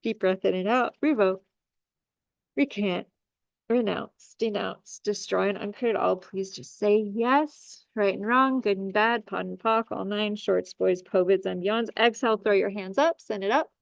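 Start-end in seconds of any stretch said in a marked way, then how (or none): 1.0-11.9 ritual clearing list. Acted.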